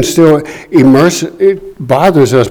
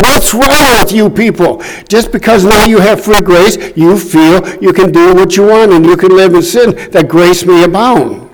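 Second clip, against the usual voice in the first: mild exasperated rebuke; 4 semitones higher than usual. Retold or imitated. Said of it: "this is what Paul was saying".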